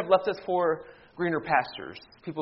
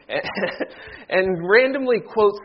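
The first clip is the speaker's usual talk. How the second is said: laughing; 3 semitones higher, 4 dB louder than usual. Real, not acted. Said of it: "laughing at himself".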